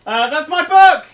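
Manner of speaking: outraged yelp at the loss; indignant shout. Real, not acted. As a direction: cry it out in dismay. Loses book to vending machine.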